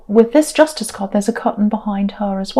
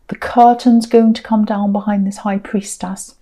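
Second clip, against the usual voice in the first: hushed whisper. Real, not acted. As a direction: drop to a whisper for the prediction. Tarot reading prediction.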